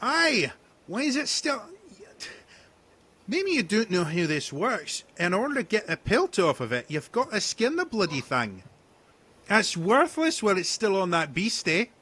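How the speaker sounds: high, loud rustic hunter voice; rough hunter. Acted. Hunter scolding the party over the pelt, rough and loud.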